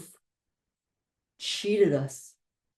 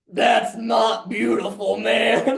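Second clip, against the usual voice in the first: a gravelly jazz singer's voice; slower than usual. Acted. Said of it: "And Louis Armstrong goes".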